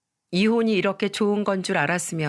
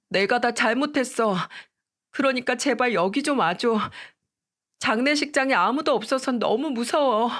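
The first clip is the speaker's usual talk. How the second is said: pleading ex-wife; 4 semitones higher than usual. Retold or imitated. Ex-wife begging, scared.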